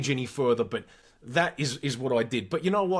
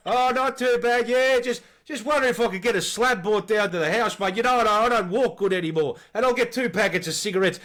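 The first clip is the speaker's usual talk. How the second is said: put-on decrepit old man; 5 semitones higher, 4 dB louder than usual. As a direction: ask for the slab like a frail old bloke. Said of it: "most decrepit voice".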